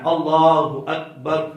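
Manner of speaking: اللہ with the double lam held long, slowly drawn out; long lam in Allah. Shown as a demonstration. Teacher demonstrating correct takbir to students, lam of اللہ drawn out slowly. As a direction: stretch only the lam of اللہ in اللہ اکبر. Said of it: "لام کو صرف لمبا کرنا ہے".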